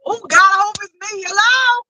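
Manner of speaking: high, loud eager outcry; bursting with want; excited hope. Real, not acted. Hoping she is the one who goes, high loud excitement.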